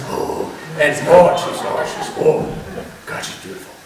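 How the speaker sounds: lightly voiced old grandpa, muttering and sighing; Grandpa's voice. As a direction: grumble fondly about your wife, just a hint. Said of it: "I won't continue to do his voice".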